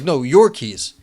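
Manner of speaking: impatient mugger. Retold or imitated. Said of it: "the guy's like".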